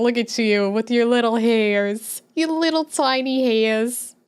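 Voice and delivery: drawn-out, rising coo; playful cooing. Pretend. Streamer fawning over a viewer's little hairs, playful cooing. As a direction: coo over something tiny and cute.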